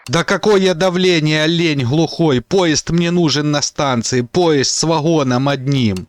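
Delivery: slow, spelled-out angry shouting; exasperated yelling. Acted. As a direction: yell it slowly to a deaf man. Yelling at deaf operator.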